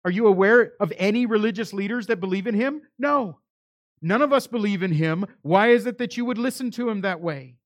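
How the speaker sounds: high, forceful scornful questioning; arrogant. Retold or imitated. Religious leaders questioning the returned officers, with acted arrogance. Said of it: "in their arrogance, they begin to ask".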